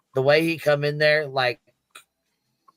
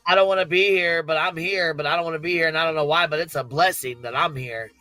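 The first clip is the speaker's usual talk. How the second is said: mock drunk ramble; 3 semitones higher, faster than usual. Mocking drunk Craig.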